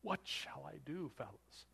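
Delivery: high, hammed-up fretting; mock panic. Preacher mocks a panicking Jesus he never was, high and hammed-up. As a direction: flap about like a lost man. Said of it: "Jesus doesn't go".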